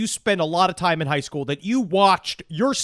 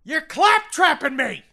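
high-pitched mock scream; screamed accusation; 10 semitones higher than usual. Killer accusing his victim, screaming high. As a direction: cry it out in a strained high voice. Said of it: "Herb responded by screaming".

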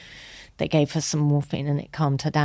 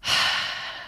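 retold sigh; 5 dB quieter than usual. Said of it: "And she went".

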